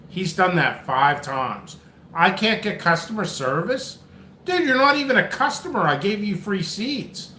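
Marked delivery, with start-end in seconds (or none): 2.1-7.3 exasperated disbelief; incredulous. Retold or imitated. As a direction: scoff in disbelief. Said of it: "Like, wow, dude, wow".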